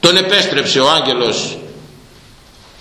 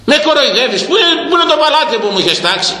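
angry outburst; 12 semitones higher, faster than usual. Acted. King demanding the promised palace, rising fury. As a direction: let the anger boil over, rushing. King confronts cheating builder.

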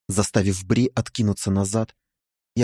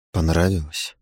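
low male voice; 6 semitones lower than usual. Acted. Man asks Bri, lower voice.

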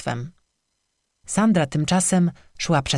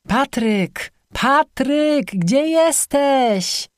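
higher, louder, slow desperate calls; frantic calling; 9 semitones higher, 3 dB louder, much slower than usual. A narrator's reading. Sandra frantically calls her missing boyfriend, loud. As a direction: shout his name, searching in the dark.

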